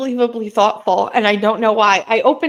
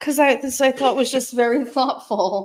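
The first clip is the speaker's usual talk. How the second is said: speaking through tears, tearful; 2 semitones higher, 3 dB quieter than usual. Asked why they're crying, the speaker explains, crying while talking. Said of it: "Why are you crying?".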